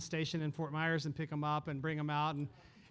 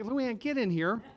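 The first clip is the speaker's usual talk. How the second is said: louder, slow urgent retold call; 5 semitones higher, 5 dB louder, slower than usual. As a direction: call her inside, urgent but slow. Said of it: "And I'm like".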